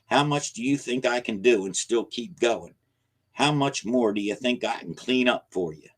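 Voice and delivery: put-on old man worn down and angry; weary anger. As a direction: complain that he's worn out. Weary old man pleading angrily.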